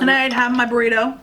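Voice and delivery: talking while munching chips; crunching chips. Real, not acted. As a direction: mouth full of chips. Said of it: "We're still munching on chips".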